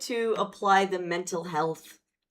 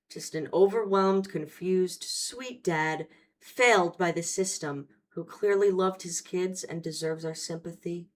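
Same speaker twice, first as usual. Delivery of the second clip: mock sympathy. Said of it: "Am I doing this right?".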